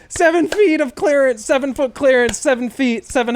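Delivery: angry repeats trailing off; fading angry yell. Retold or imitated. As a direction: keep shouting the number, then run out of steam. Still yelling, calming down.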